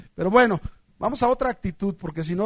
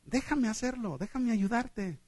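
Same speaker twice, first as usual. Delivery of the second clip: soft, gentle offer of help; kindly elder, softly spoken; smiling old man; 7 dB quieter than usual. Acted. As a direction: offer help quietly with a smile. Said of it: "sonriente, sonriendo, le dice".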